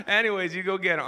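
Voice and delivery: loud, high Southern send-off; hammed-up Southern accent, cheering someone on. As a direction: imitate a counselor's big Southern accent. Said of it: "had this Southern accent".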